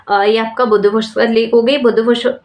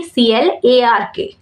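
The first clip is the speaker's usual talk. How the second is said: spelling aloud; slower than usual. Shown as a demonstration. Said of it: "spells the name Clark".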